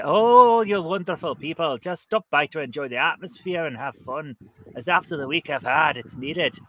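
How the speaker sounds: lightly put-on Scottish lilt; fake Scottish accent. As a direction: read it in mock Scottish. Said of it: "a fake Scottish accent for this one".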